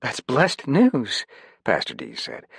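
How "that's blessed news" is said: slow, louder, smiling delight; pleased smile. A narrator's reading. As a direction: savour the good news slowly with a smile. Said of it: "a big smile spreading across her face".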